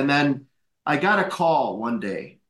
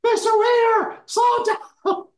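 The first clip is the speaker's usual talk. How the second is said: much higher, louder worried servants calling out; alarmed servants; 3 dB louder, slower than usual. Retold or imitated. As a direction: servants begging the old man to slow down. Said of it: "the Filipinos were like".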